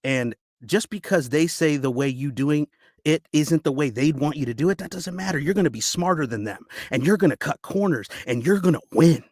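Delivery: acted dramatic speech with heavy pauses; audition monologue. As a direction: urge them on bitterly, building in pitch and force.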